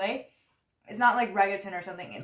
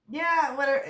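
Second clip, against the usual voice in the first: dismissive pose; 5 semitones higher, 4 dB louder than usual. Retold or imitated. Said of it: "he had this pose".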